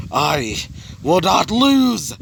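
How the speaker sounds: very slow, high scream of defiance; drawn-out hammed-up battle yell; acted scream. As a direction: scream it out, stretching the last word. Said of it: "After screaming that out".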